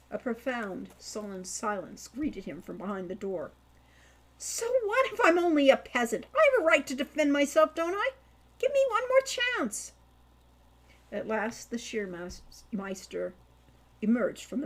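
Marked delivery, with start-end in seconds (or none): 4.4-9.9 loud, high, pleading cries rising; boy yelling to be let in; desperate shout. Acted. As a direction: beg at the top of his voice. Begging shout at barracks door.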